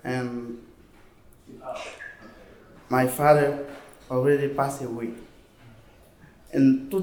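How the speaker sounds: French West African accent in English; ivorian accent. Real, not acted. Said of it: "I don't know English very well".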